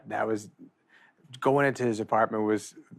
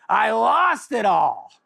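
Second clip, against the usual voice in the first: very slow, higher, drawn-out confession; slow mock-Norm admitting the loss; deadpan Norm; 10 semitones higher, 7 dB louder, much slower than usual. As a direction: drag each word out deadpan. Norm's deadpan punchline.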